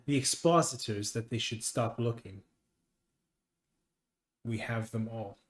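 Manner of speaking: measured, understated triumph; lightly voiced smug master. Game master voices assembly master.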